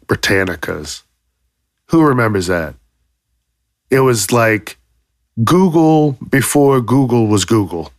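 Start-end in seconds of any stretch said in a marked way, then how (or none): 5.4-7.9 Google before Google was Google, yelled out; shouting the punchline; shouted punchline. Real, not acted. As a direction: belt the joke with a laugh in it.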